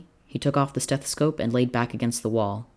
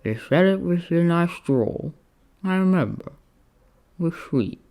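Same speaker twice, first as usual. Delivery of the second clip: tender Roman voice; 6 semitones higher, 3 dB louder than usual. A narrator's reading. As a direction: savour the memory fondly.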